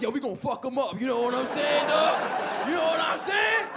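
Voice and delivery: mock hyped gangster. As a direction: gangster pumping up the crew. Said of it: "y'all were riding like".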